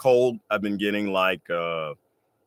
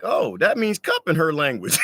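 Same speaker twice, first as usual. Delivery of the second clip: mock realization; 7 semitones higher than usual. Feigned understanding of tribe speech.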